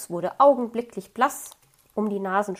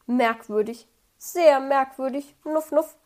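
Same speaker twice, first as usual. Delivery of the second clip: suspicious hedgehog; 4 semitones higher, 4 dB louder than usual. A narrator's reading. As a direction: draw out the suspicion, end with two sniffs.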